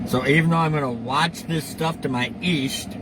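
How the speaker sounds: false teeth whistling on the s; s sounds whistle through loose dentures. Real, not acted. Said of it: "sorry about the whistle, my false teeth do that sometimes".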